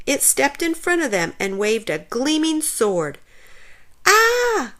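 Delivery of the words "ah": loud, high scream; terrified shriek while tripping; panicked cry. A narrator's reading. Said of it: "both screamed".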